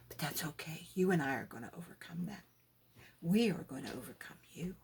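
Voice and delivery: hushed intimate whisper. Retold or imitated. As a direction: whisper it like a secret promise. God whispering reassurance.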